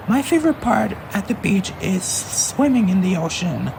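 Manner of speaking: high, happy answer; happy sister. Acted. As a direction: share your favourite moment. Elita answers happily.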